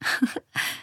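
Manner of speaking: light, quiet chuckle; short giggle. A narrator's reading. Esmina tickled by whiskers, short giggle. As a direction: let out a brief soft laugh. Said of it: "Esmina lachte".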